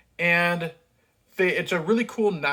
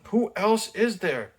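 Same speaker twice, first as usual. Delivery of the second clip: usual speaking voice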